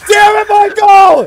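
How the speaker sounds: slow furious yell at a teammate; angry shout. Real, not acted. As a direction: bark it out, frustrated. Angry at teammate mid-fight.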